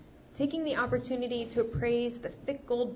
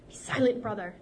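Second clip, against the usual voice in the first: snapped. Acted. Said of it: "the Basha snapped".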